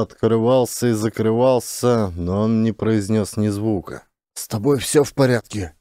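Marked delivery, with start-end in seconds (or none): 4.3-5.8 concerned. A narrator's reading. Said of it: "с беспокойством спросил".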